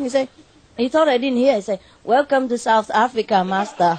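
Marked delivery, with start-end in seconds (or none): 2.0-4.0 flat, unsmiling. Retold or imitated. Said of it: "Exactly like that".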